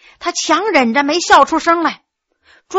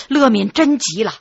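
plain reading voice

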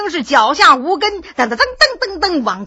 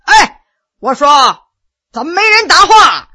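loud call; 3 semitones higher, 6 dB louder than usual. Acted. 老人大声喊没人答话的店家. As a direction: demand an answer, louder. Old man shouting for attention.

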